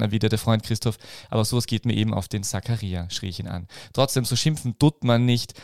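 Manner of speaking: measured read-aloud narration; story reading. Acted. Reading his pun story to the podcast co-host, storyteller voice.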